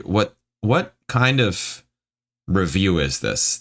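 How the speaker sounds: drawn out, baffled question; incredulous. Real, not acted. Reader breaks off from a baffling review, incredulous. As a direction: balk at it slowly, in disbelief.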